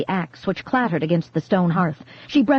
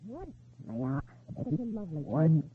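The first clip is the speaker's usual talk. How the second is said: eerie whisper-voice; 2 semitones lower, 11 dB quieter than usual. Acted. Sinister quoted voice on jacket.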